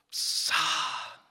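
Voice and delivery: a sharp, surprised "Pshaw!"; exclaimed. A narrator's reading. King scoffs in surprise at the old gardener's answer. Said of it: "exclaimed the king".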